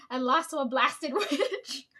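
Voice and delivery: put-on slow grumbling old man, with a laugh breaking in; grumpy grandpa. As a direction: play the sore loser grandpa slowly. Grandpa quoted losing the contest.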